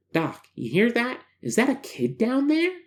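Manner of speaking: high, alarmed character voice; scared and startled; nervous subject voice. Acted.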